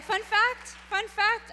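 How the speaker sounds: loud high eager "fun fact, fun fact"; imitating the kid. Teacher mimicking a student's catchphrase in class, loud and high. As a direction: chirp it like an excited kid. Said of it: "it was like".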